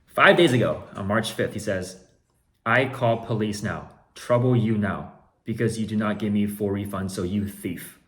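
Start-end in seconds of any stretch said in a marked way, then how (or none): 2.7-8.0 all caps threat. Retold or imitated. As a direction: read it like shouting in caps. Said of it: "in all caps".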